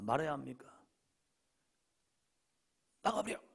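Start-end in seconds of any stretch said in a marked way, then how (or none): 3.0-3.4 higher, snapped-out get out; mock angry parent. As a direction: toss it like a scolding parent. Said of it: "이 말이야". (높게 툭 내뱉는 나가버려)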